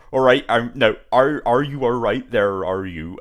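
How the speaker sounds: slow rural Somerset drawl, lightly imitated; a hint of a West Country farmer; Somerset farmer accent. Imitating a Somerset farmer from the game, slow rural accent. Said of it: "sounds like a farmer".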